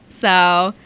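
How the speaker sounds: voice crack. Real, not acted. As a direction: voice cracks upward on the word. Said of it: "little voice crack there for you".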